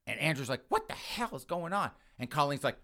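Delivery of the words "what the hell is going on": high-pitched mock bewilderment; alarmed question. Son walking in on the fight, alarmed. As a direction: demand an answer, voice pitched up.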